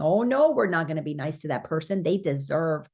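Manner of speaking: a hint of a petty, indignant ego rattling along fast; mock ego voice. Preacher mocking the ego's voice for the congregation, fast and lightly indignant. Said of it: "you hear the voice going".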